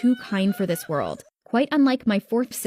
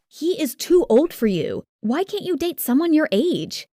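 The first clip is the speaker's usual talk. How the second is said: disapproving dad; 6 semitones higher than usual. A narrator's reading. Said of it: "Dad wasn't happy".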